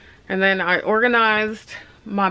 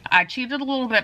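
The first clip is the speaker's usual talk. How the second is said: cramped, bent-over voice; hunched over; 4 semitones higher, faster than usual. Real, not acted. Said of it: "I'm all hunched over here".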